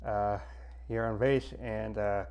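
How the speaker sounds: talking around a pen in the mouth; pen in teeth. Real, not acted. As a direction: speak with a pen held in your teeth. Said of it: "if you wonder why I have a pen in my mouth".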